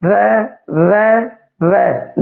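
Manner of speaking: ਰੈ repeated three times, last one falling; sound demo. Shown as a demonstration. Teacher letting students watch the mouth, careful demo. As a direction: say ਰੈ again so they can watch the tongue. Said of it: "ਤੁਸੀਂ ਵੇਖ ਰਹੇ ਹੋਗੇ".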